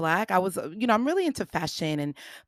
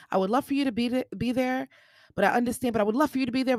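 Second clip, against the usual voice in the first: retold gentle plea; 5 semitones higher, much faster than usual. Retold cousin's understanding invitation.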